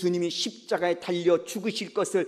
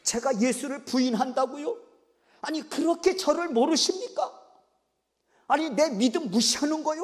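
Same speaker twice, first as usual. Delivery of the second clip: offended protest; 6 semitones higher than usual. Acted. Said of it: "베드로 입장에서는".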